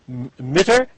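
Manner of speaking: "Mütter" with a plain short i, like "mitter"; unrounded wrong vowel. Shown as a demonstration. Teacher showing what not to say, unrounded "Mütter". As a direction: say "Mütter" without rounding the lips. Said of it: "You're just not gonna say".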